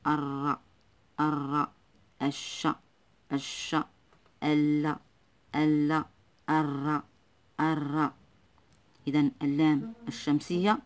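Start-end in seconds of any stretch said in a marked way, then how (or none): 0.1-8.1 الر, الش, each syllable isolated with its consonant doubled; doubled first letter. Shown as a demonstration. Teacher drilling the letter after lam, الر and الش with doubled consonants. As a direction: hold the consonant in الر and الش, pausing between. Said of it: "يكون دائمًا مشددا".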